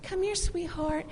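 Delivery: put-on soft talk a boy tunes out; soft sweet mom. Shown as a demonstration. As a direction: coo it softly like a tender mom. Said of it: "you don't say".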